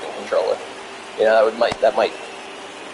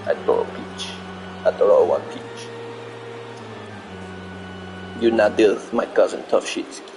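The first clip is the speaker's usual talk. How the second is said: weak fake Russian accent; bad Russian accent; 5 dB quieter than usual. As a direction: try a Russian accent, badly. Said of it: "I'm terrible with a Russian accent".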